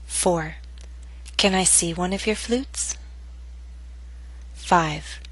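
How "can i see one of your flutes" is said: "Can I see one of your flutes?" rising at the end; rising intonation. Shown as a demonstration. Teacher models question to repeat, rising intonation. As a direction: lift the pitch through "your flutes". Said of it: "practice intonation patterns and questions".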